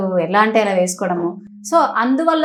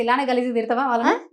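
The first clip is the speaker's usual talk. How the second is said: plain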